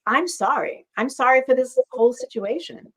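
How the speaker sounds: plain, open "I'm sorry" with no blame; simple sincere apology. Shown as a demonstration. Showing the right way to apologise, simple and sincere. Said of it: "No, just".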